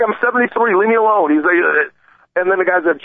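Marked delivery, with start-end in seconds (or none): 0.0-1.3 put-on higher pleading old man. Host imitating the old man begging the thug, higher pleading. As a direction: plead your age, voice pushed up.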